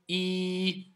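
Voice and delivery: long, pure held I; son correct. Shown as a demonstration. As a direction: sustain a clean ee for I. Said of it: "prononcer bien le i". (son correct I, bien tenu)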